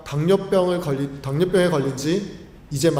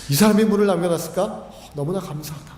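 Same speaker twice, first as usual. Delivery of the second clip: brisk gratitude. Acted. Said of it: "사랑하는 마음이 생기는 겁니다".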